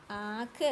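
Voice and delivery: आँख with a long nasal first vowel; nasalized vowel demonstration. Shown as a demonstration. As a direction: lead the class in a nasal आँख. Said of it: "मेरे साथ बोलेंगे". (आँख, नाक और मुंह दोनों से)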